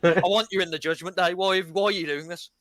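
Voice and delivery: yelling at him to explain himself; angry confrontation. Retold or imitated. Mommy yelling at J D for ruining things, loud.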